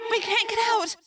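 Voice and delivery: high, distant distressed voice; faraway cry. A narrator's reading. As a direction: cry it thinly from far off. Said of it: "Rachel cried".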